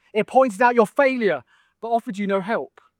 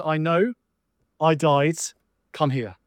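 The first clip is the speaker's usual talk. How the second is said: tender; 4 semitones lower than usual. Retold or imitated. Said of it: "Jesus says".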